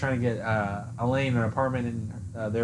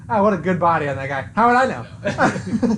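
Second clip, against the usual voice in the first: paranoid George; 5 semitones higher, 5 dB louder than usual. Retold or imitated. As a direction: catch yourself, laughing and flustered. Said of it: "and he's like".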